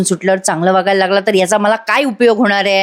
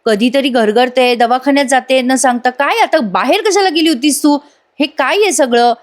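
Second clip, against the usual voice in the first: mild retold anger, pitched higher; a hint of a husband snapping at his wife, voice raised in pitch; angry; 4 semitones higher than usual. Husband scolds his fainting wife, lightly acted higher-pitched anger. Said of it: "Arjun आता चिडून म्हणतो".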